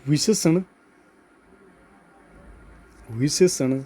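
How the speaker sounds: measured note-dictation voice. Real, not acted. Teacher dictating a note to students, measured dictation. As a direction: say it carefully for writing down. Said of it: "note लिखवा रहा हूँ".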